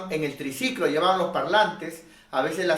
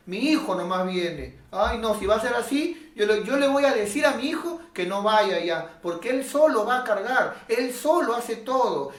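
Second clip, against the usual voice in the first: a hint of a whiny mother, a bit higher; complaining mother; 5 semitones higher than usual. Preacher imitating mothers who complain their son does all the work, a touch whiny. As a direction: grumble on the son's behalf. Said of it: "Decían".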